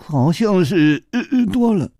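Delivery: sheepishly amused, a bit high; said with a smile. A narrator's reading. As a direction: drag it out with an amused hesitation. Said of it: "笑着说".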